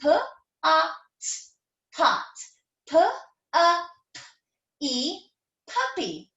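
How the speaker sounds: each letter sound isolated, then the word blended. Shown as a demonstration. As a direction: phonics sounding out for kids. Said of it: "So ready?".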